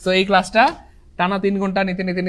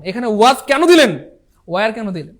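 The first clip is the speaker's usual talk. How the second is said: mock respectful; 4 dB louder than usual. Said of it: "যিনি প্রশ্ন বানিয়েছে আমরা তাকে সম্মান করে বললাম".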